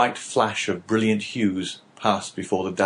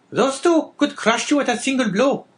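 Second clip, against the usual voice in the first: much higher, pressing woman's warning; wife chiming in; 4 dB louder than usual. Acted. Wife cutting in to warn her husband, high and pressing. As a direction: cut in with a warning. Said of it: "chimed in La Carconte".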